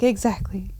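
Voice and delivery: a flat whispered exactly. Retold or imitated. Friend whispering a dry reply. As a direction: breathe the word without voice.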